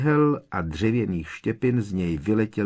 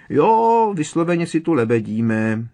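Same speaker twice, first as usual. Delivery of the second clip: squashed, strangled sarcasm; muffled voice; 7 semitones higher, 6 dB louder than usual. A narrator's reading. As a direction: sound pressed against a wall. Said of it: "Georgeův hlas zněl přidušeně". (přidušený hlas)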